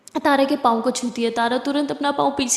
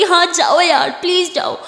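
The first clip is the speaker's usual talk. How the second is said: upset outburst; 5 semitones higher, 4 dB louder than usual. Acted. Tara tearfully sends Siya away.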